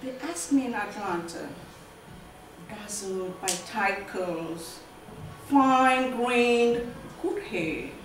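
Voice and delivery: measured, deliberate poetry reading; poem recital. Acted. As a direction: let each short phrase land, with long pauses. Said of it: "let me go ahead and read the poems".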